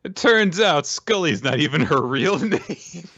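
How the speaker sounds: whispered through a giggle; giggly half-whispered aside; laughing whisper. Real, not acted. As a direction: breathe the joke out while laughing. Joking about TV lies.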